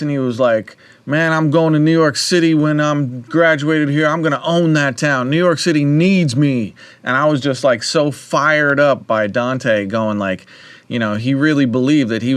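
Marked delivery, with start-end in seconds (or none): 1.1-6.7 brash New Jersey guy, louder and higher; New Jersey accent. Retold or imitated. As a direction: swagger it out like a cocky kid from Jersey. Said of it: "he talked like this".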